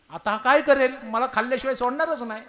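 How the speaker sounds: high, loud, fast panic; panicked fear. Acted. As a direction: blurt out the dread. Govinda panicking.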